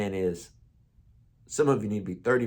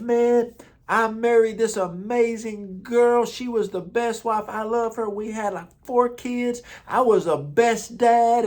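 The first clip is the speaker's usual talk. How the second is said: put-on much higher, friendly old-timer greeting; old man's voice; 10 semitones higher than usual. Old man in nursing home welcoming young pastor, higher cheerful old voice. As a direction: pitch way up like a cheerful elderly vet.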